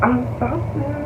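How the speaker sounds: a hint of a meek stammering girl; lightly mocking timid stammer; mock timid apology. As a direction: mockingly play the shy sorry returner. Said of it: "you thought I was sitting there like".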